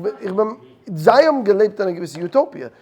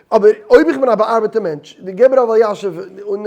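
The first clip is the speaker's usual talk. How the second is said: laughing; 2 semitones higher, 8 dB louder than usual. Real, not acted. Laughing through heated argument.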